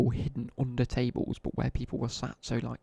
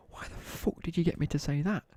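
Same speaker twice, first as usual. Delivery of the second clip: imitating an indignant teacher, pitched up; mildly outraged, higher-pitched complaint; retold indignant protest; 5 semitones higher than usual. Teacher rounds on the pupil who tricked him, mock indignant.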